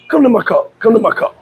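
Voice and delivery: lightly imitated Russian accent; a hint of a Russian buddy's accent; Boris. Russian friend inviting him to the car, lightly imitated Russian accent. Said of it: "story about my Russian friend Boris".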